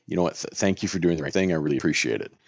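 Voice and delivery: calm, polite thank-you; courteous and unbothered. Retold or imitated. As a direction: kill him with kindness, evenly. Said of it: "Just like this, just like I'm saying it right now".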